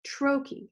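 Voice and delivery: "trochee" with strong TRO, weak "chee"; stress on first syllable. Shown as a demonstration. Teacher illustrating stressed-unstressed, first syllable of "trochee" stressed. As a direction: hit the start of "trochee". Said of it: "like the word itself".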